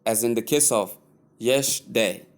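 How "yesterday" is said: "yesterday" in two syllables, YESH-day, middle dropped; shortened mispronunciation. Shown as a demonstration. Teacher showing learners what to avoid, shortened mispronunciation. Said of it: "avoid shortening".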